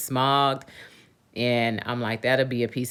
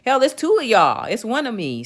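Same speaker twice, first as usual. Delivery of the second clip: high, louder, fed-up comeback; retold exasperated retort; 12 semitones higher, 4 dB louder than usual. Customer firing back at the mechanic, exasperated high retort. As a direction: snap it back, pitched way up. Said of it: "I said".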